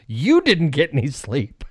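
drawn-out disbelief, leaning on YOU; mock incredulous. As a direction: stretch it out like an indignant retort. Quoting wife's incredulous text.

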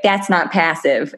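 slow, drawn-out Midwestern imitation of a friend; gently mocking Midwestern accent. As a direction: tease her with a light Midwest accent. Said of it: "in her Midwestern accent".

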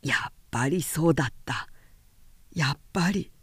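low, soft anguished groan. Acted. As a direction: groan it out in pain. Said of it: "うめくように言い".

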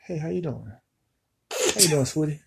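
soft mock-flirting customer; flirty sweet talk. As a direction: sweet-talk the pretty cashier. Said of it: "how I respond".

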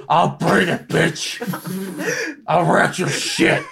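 lightly voiced threat, laughing; mock menacing impression; imitating Tourette's guy. Friend imitating a threat to the janitor, laughing impression. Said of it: "You make him sound like Kevin from The Office".

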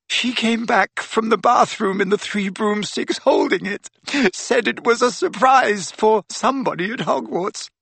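put-on high-pitched distraught girl; shaking, tearful. A narrator's reading. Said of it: "had started to shake uncontrollably".

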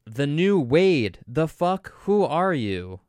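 loud mock yelling; hammed-up caps-lock outrage; all caps. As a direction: shout it like a message typed in all caps. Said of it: "in all caps".

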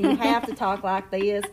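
light Western twang demo; touch of cowboy Western accent. Shown as a demonstration. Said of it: "her favorite accent is a Western accent".

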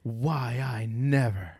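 put-on slow, low, huffy old lady; indignant old lady. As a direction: play an offended old lady, slowly. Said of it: "did she go".

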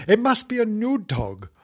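lightly voiced cat guessing; excited guess. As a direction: guess it brightly. Character guessing.

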